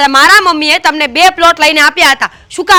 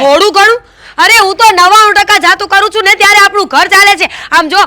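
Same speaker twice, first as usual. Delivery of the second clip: indignant retort; 5 semitones higher, 3 dB louder than usual. Acted. Wife retorts indignantly in quarrel.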